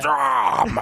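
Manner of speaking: a hint of a grizzled war hero; over-grizzled voice. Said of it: "the most fucking over-grizzled".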